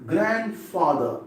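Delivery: "Grandfather" slowly, stressed on GRAND; stress at beginning. Shown as a demonstration. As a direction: lean on the first part of "Grandfather". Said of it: "In the beginning only".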